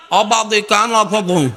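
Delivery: slow, slurred toothless mumble; words blurred as if the teeth are gone; toothless speech. Shown as a demonstration. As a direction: imitate someone talking with no teeth. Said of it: "আর জিব্বা আছে, দাঁত নাই".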